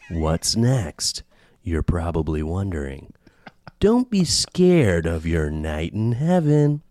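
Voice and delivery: slow, serious true crime narrator; true crime podcast voice. Acted. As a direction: read it like a true crime host. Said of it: "read Dwight's recording in your true crime podcast voice".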